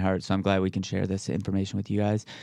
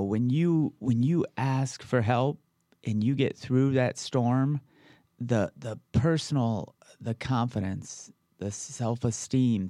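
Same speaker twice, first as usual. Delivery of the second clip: emotional. Real, not acted. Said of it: "getting emotional again".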